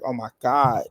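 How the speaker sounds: building mock amazement; mock astonishment. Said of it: "I was like".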